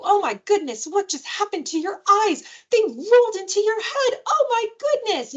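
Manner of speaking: high, mock-astonished parent; fun and playful. Shown as a demonstration. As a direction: tease a child with exaggerated amazement. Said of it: "just making it fun and playful".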